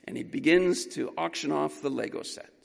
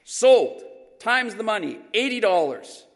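higher, much louder "sold"; auctioneer's loud close; 6 semitones higher, 9 dB louder than usual. Retold or imitated. Auctioneer closing the sale loud to the boy. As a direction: bang the gavel with your voice.

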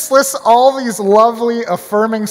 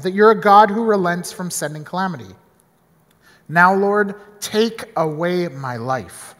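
scripture reading. Acted. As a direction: read the passage to the congregation. Reading Jonah scripture aloud.

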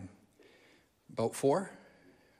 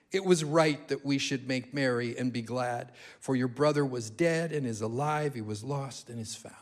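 lightly lowered, solemn fatherly God; voice of God Almighty; 6 semitones lower than usual. Acted. The father in the parable, voiced as God, solemn and low. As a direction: speak it as the Almighty, gently and gravely. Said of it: "in the voice of the God".

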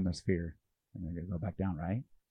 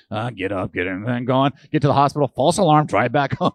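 frantic rush; 8 dB louder than usual. Retold or imitated. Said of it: "the false alarms are like".

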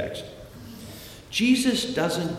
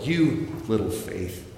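scornful. Shown as a demonstration. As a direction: say it with measured disdain. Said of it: "Or is he scornful?".

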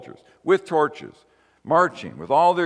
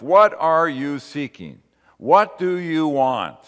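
slow and loud, leaning on each word; slow emphatic question; 2 semitones higher, 6 dB louder, slower than usual. Acted. Preacher challenges the congregation, slow and loud. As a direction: press the question home to the congregation, slowly.

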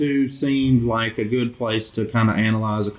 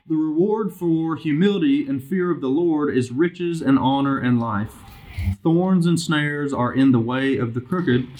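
measured, lifted reading voice; scripture reading; 3 semitones higher than usual. Real, not acted. Bible study leader reading proverbs aloud to the group, measured scripture reading. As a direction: read the verse out clearly to the group.

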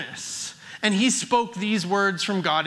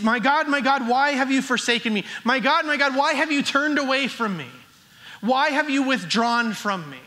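anguished cry. Acted. Pastor voicing Jesus crying out from the cross, anguished. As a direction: cry it out as if forsaken. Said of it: "he shouts from the cross".

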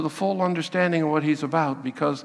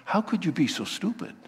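quick, softer exasperated scold; 4 dB quieter than usual. Pretend. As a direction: tell him off once he's safe. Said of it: "And then you'll say".

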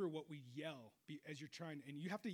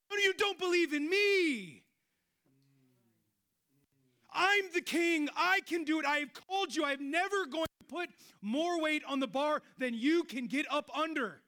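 God's voice; 8 semitones higher, 12 dB louder than usual. Retold or imitated. God reassuring a doubting believer, commanding voice. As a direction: proclaim with divine authority. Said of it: "And I think God".

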